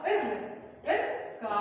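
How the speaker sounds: ఇర్ with a vowelless R, then long కా; pollu R demo. Shown as a demonstration. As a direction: stop on ఇర్, then draw out కా. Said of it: "రాని ఎలా పలుకుతాం పొల్లుగా?". ("ఇర్ కా": ర్ పొల్లుగా పలకడం)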